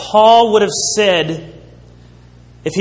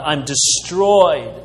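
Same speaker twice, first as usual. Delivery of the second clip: despairing. Retold or imitated. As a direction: act out a man at the end of his rope. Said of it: "That would be the opposite".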